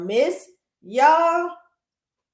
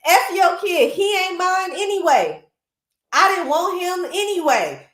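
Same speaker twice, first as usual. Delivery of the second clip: mock-furious stepmother lashing out; hammed-up cruel stepmother yelling; spiteful stepmother; 6 semitones higher than usual. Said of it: "And she goes".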